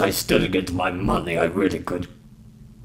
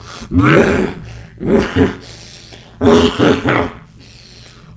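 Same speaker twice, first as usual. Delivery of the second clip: wheezy laugh; 4 dB louder than usual. Acted. Wheezing laugh after take two.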